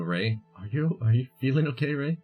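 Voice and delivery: ordinary talk, nothing marked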